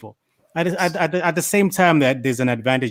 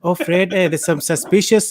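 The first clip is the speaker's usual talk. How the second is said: lightly imitated Indian accent, pitched higher; 5 semitones higher than usual. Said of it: "Why are you doing the accent?".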